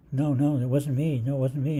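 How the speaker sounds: denying mother. Retold or imitated. Mother accused of farting.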